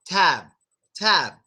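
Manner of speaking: Tab ending on closed lips; Tab, b unreleased. Shown as a demonstration. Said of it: "is what's stopping the sound".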